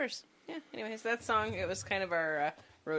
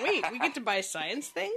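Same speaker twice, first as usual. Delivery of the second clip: mock excitement; 7 semitones higher, 4 dB louder than usual. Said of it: "I was like".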